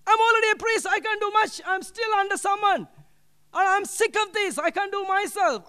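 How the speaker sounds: mild mock outburst of a fed-up young priest; retold anger. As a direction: replay the frustration without full force. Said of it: "I was very angry".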